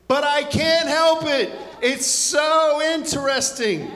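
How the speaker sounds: preacher amazed at human nature; amused wonder. Acted. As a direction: marvel at it half laughing. Preacher marvelling, laughing.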